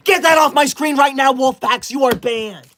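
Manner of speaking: angry shout. Real, not acted. Streamer to gift spammer, angry shout. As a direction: bark the order across the stream.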